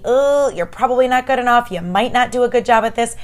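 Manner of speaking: lightly voiced nagging doubter; a hint of whiny inner critic. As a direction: mildly mimic a nagging self-doubt. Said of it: "that little nagging voice that's telling me".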